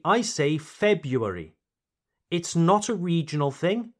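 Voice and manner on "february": February as FEB-yoo-air-ee; first R dropped. Shown as a demonstration. Teacher gives own preference, February without the first R.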